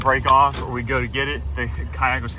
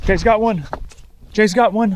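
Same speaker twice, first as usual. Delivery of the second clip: high, loud call; excited shout; 9 semitones higher, 8 dB louder than usual. Real, not acted. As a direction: shout it out for the catch. Calling a partner's catch.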